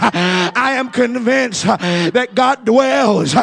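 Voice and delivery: rising, rhythmic preacher's call; fiery preaching. Acted. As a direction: preach it to the congregation. Preaching at full force.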